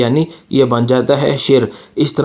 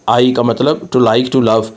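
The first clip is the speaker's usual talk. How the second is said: slow teaching; slower than usual. Shown as a demonstration. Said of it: "pronunciation देखिए".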